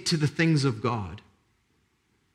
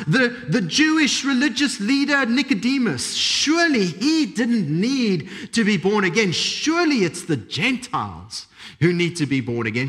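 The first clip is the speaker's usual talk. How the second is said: voicing Nicodemus' thoughts; 2 semitones higher than usual. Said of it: "Nicodemus is thinking to himself".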